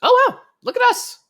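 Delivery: sarcastic wow, pitched high and loud; mock amazement. Real, not acted. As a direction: gush in teasing awe. Mock praise at the deployment.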